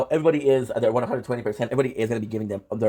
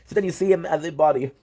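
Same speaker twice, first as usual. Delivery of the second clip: real tears, higher pitch, long halting pauses; tearing up; 3 semitones higher than usual. Real, not acted. Fan telling guys how the character cared for her, tearing up. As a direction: struggle to keep talking while moved. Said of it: "I fucking teared up".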